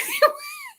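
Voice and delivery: high squealing burst of laughter; real high cackle. Real, not acted. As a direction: let out a shrieking laugh. Laughs at own joke.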